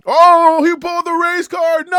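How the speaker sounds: loud mocking yell that dissolves into laughter; loud mock outrage at the race card, then a long laugh; mock critic shout. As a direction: shout it as a joke and break up laughing.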